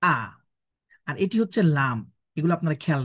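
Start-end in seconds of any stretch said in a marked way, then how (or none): 0.0-0.1 "আ" as a lone hamza with fatha; hamza sound. Shown as a demonstration. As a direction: demonstrate an isolated "আ" starting from a glottal stop. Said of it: "এটা হামজার উচ্চারণ হয়ে যাবে".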